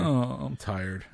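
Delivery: drawn-out, sleepy slow voice; slow motion. Pretend. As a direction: let the words sag slowly. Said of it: "speaking in slow motion".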